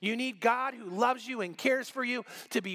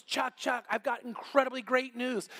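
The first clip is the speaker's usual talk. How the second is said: excited; 3 semitones higher than usual. Retold or imitated. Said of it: "so excited".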